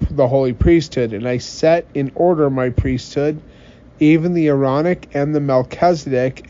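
solemn, declaiming scripture reading. Acted. Reads scripture aloud.

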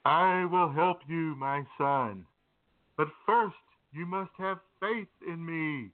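slow, grand voice of God; lightly voiced majestic voice from above; God answering the climber, slow and grand; majestic booming voice. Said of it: "this majestic voice boomed".

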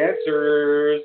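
drawn-out hopeful line, slow; slow, lingering hope. Shown as a demonstration. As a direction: stretch every word out slowly. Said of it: "I hope he answers".

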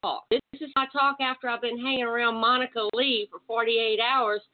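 real Texas twang caught from a friend; Southern accent rubbed off from Texas company; picked-up Texas accent. Real, not acted. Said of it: "get rid of this accent".

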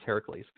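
Heracles as HEH-ra-kleez; Greek pronunciation. Shown as a demonstration. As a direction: say Heracles the Greek way, three syllables. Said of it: "that's how you pronounce it in Greek".

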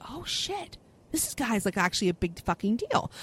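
retold in a soft, awed aside; hushed realization. Telling host about spotting a big-name podcaster, hushed realization. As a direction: drop the volume for a dawning realization.

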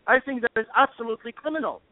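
rising indignant outburst, pitch climbing; real anger. Real, not acted. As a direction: let the fury spill out as you accuse. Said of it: "I'm sorry to get emotional".

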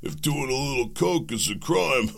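laughing mock quote. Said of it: "This is how people are looking".

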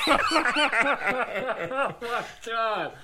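stretched out, laughing; slow laughing oh my god; laughing disbelief. Retold or imitated. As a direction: drag it out through laughter. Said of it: "I was like".

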